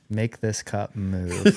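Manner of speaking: slow, half-laughing dare; chuckling through a pretend command; laughing mock demand. Joking along with the story.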